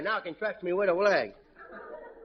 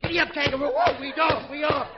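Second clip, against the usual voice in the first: excited ride; 3 semitones higher than usual. Acted. Kid riding kangaroo.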